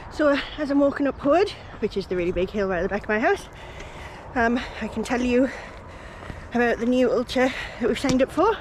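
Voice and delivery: heavy breathing uphill; breathless from the climb. Real, not acted. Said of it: "Excuse the heavy breathing".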